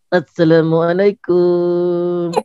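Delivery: slow, stretched-out salam; drawn-out greeting. Pretend. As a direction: draw out every syllable of the greeting.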